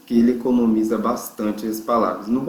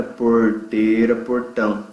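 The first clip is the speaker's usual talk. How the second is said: slow "porteira" with a southern Brazilian R; slower than usual. Shown as a demonstration. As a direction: drag the R like a gaúcho. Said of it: "R do pessoal do sul". (sotaque sulista no R)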